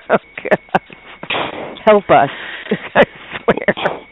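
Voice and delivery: helpless, breathy laughter breaking up the words; cracking up in disbelief; real laughing fit. Real, not acted. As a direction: laugh so hard you can barely get the words out. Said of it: "I can't even say it without laughing".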